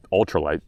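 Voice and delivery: "ultralight" said low for emphasis; stress on ultralight. Real, not acted. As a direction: set "ultralight" apart, dropping the pitch. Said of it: "emphasis on the ultralight".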